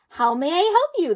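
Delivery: a lightly voiced helpful shapeshifter; a hint of an eager shopkeeper.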